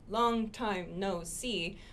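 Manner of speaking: long time no see said slowly, each word apart; slow, separated words. Shown as a demonstration. Teacher showing the wrong way, slow and separate.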